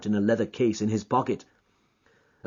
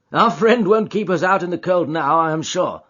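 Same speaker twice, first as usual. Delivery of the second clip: friendly, brisk gentleman; genial Holmes voice; 8 semitones higher, 5 dB louder than usual. Acted. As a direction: jog his memory cheerfully.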